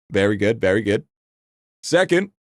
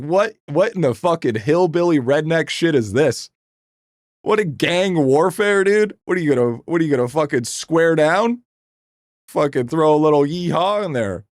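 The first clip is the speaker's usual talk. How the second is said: mocking disbelief; 5 semitones higher than usual. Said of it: "I'm like".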